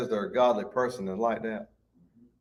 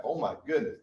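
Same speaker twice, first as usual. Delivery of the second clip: soft aside of mild disbelief; onlooker's dismay; 7 dB quieter than usual. Acted. Onlooker who knows the backstory, quiet dismay. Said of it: "You know the back".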